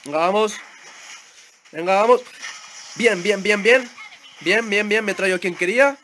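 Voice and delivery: loud, high bursts of encouragement; excited rallying shouts. Real, not acted. Gamer urging the team into the fight, excited. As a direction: cheer the team on at full volume.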